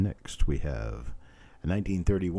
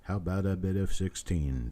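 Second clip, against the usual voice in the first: the same bid call drawn out a little slower. Shown as a demonstration. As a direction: ease off the chant and spell it out. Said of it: "I don't even know if I can say that slower".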